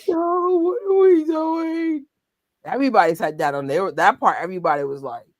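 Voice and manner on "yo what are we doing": higher, slow, drawn-out disbelief; mock disbelief. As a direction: stretch out the disbelief like you can't believe it. Mock reaction to sad song.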